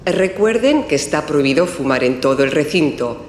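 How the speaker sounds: formal public address announcement; airport announcement. Acted. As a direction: call passengers to their gate over the terminal speakers. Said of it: "Está en el aeropuerto y oye el siguiente aviso".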